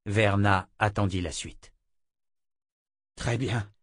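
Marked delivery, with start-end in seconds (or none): 3.2-3.7 whimpering. A narrator's reading. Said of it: "gémit-il".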